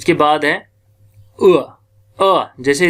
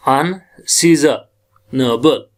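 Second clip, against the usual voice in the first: अनसीजनेबल slow with weight on सी, an-SEE-za-nabl; slow, hit the see of अनसीजनेबल; teacher places stress on सीज; stress on second syllable; much slower than usual. Shown as a demonstration. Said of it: "second syllable सीज है".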